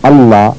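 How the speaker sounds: "اللہ" as alla with a strong double l; doubled consonant. Shown as a demonstration. Teacher demonstrating shadda, "اللہ" with doubled l. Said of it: "اس میں شد پیدا کر دیتا ہے".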